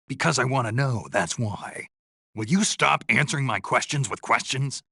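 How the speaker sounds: irritated, pitch jumping up; exasperated. Acted. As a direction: push back, fed up with being dodged. Argument over unanswered questions.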